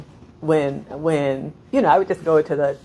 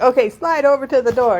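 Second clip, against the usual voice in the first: instructor shout; 9 semitones higher, 7 dB louder than usual. Retold or imitated. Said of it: "he was like".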